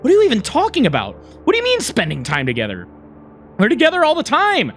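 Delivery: indignant, pitch jumping up; angry, indignant. Acted. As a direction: fire back with mild indignation. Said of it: "with an angry, indignant look".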